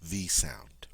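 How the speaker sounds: a breathed V, hushed and voiceless; isolating the V sound for students; whispered V. Shown as a demonstration. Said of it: "also has the V, V sound".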